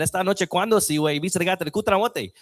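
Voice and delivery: dad's gibberish Spanish, Hispanic accent lightly put on; mock Hispanic accent. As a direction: play dad attempting a Hispanic accent. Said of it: "that was my Hispanic accent".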